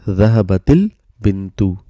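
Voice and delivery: dhahabatil bintu joined by an i after the t; linking kasra. Shown as a demonstration. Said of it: "so that it's easy to pronounce".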